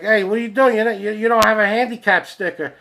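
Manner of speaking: high, loud yell that builds as it goes; angry yelling. Retold or imitated. Man yelling at a girl parked in handicap spot, angry yelling. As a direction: yell like an outraged busybody. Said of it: "starts yelling at the girl".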